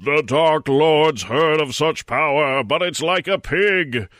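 announced brightly. Acted. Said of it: "announced brightly".

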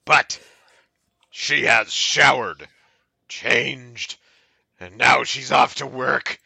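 measured dramatic poetry reading; mock-earnest verse with pauses; poem recital. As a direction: recite it deliberately, phrase by phrase. Reads a poem aloud.

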